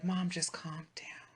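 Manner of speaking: imitating daughter. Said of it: "Even my daughter's like".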